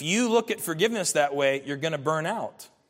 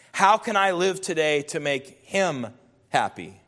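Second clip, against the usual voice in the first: reading a quote aloud. Acted.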